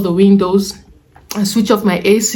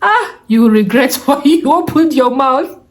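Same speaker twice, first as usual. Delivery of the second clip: imitated market heckler, pitch leaping higher; mock insults; 5 semitones higher than usual. Market sellers insulting a shopper back, mock jeering. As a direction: hurl playful insults in a rising, high voice. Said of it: "they will insult you back".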